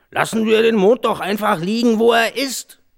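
a fat man waving the problem away. Acted. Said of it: "sagte ein dicker Mann". (viel höhere, komische Stimme eines dicken Mannes)

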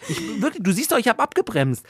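high, loud furious yelling; angry shout. Retold or imitated. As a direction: rage at a driver who won't thank. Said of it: "weil ich so denke".

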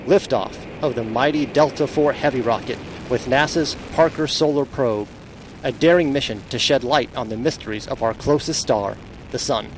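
crackly broadcast launch call; breaking up space radio. Real, not acted. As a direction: launch commentary over radio. NASA launch commentary clip.

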